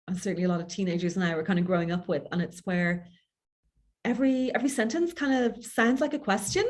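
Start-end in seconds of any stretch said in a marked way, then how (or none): 4.0-6.6 "question" lifted up at the end like asking; statement that rises like a question; upward inflection. Shown as a demonstration. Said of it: "that upward inflection at the end of the sentence".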